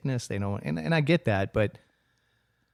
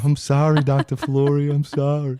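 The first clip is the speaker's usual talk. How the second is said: sheepish apology; 4 semitones higher, 8 dB louder than usual. Retold or imitated. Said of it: "I was just like".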